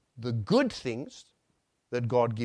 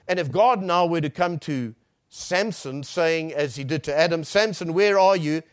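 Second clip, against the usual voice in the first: loud, higher-pitched pulpit delivery; forceful preaching; 5 semitones higher, 9 dB louder than usual. Real, not acted. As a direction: preach the imagined exchange with force. Preaches an imagined exchange with Samson.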